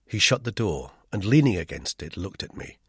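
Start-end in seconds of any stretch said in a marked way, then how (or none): none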